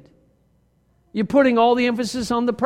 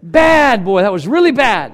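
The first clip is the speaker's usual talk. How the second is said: mock self-scolding; 6 dB louder than usual. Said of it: "pat yourself on the back of the head and say".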